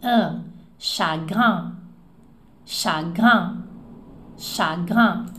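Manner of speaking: chagrin with the final IN spread like a smile, nasal; nasal smile vowel. Shown as a demonstration. Teacher showing the smiling nasal in chagrin. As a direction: stretch Un, chagrin slowly, lips smiling. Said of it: "Aquele I N é um sorriso".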